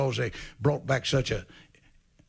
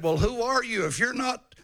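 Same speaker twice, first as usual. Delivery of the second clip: questioning priests; 9 semitones higher than usual. Retold or imitated. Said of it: "They said".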